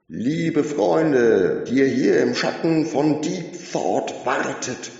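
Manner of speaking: high, loud rally call; loud high speech over a PA; calling out to crowd. A narrator's reading. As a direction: address the crowd like a showman. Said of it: "rief er".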